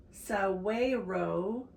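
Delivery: saguaro very slowly, with a W for the G; careful pronunciation. Real, not acted. Reader works through a hard word, saguaro slowly sounded out. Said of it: "That's a hard word to say".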